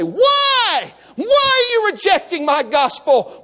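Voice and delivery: anguished preacher's cry as God. Acted. God crying out to the congregation, impassioned. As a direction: cry the first word out long, then plead. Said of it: "He's crying out to you".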